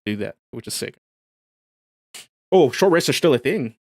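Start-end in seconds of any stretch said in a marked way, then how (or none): 2.5-3.8 surprised. Real, not acted. Notices rule while reading.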